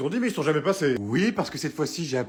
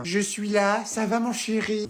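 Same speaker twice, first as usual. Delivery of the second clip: put-on higher, slow and sugary child voice; little girlfriend voice; 5 semitones higher, slower than usual.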